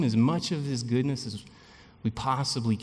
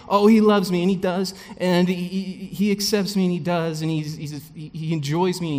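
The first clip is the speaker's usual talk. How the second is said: high, louder, gushing realization; acted-out eager delight; giddy excitement; 6 semitones higher, 5 dB louder than usual. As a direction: gush like someone newly loved. Acting out giddy newly loved believer.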